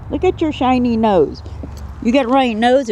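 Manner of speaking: high, cooing pet voice; pet talk. Real, not acted. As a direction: coo to the snake. Cooing at snake.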